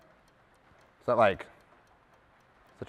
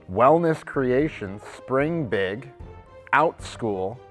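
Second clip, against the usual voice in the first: measured reading of names; list announcer; 4 semitones higher, 9 dB louder, much slower than usual. Real, not acted. Host reading out a list of companies, announcing. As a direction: announce each company name evenly.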